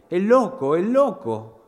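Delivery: put-on a small girl panicking behind the door; frightened cry. Little sister terrified behind the door, frightened cry.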